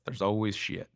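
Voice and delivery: light imitation of a Southern drawl; a hint of deep Southern US; deep Southern accent. CFO passing on business wisdom, deep Southern accent. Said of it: "she had this deep Southern accent".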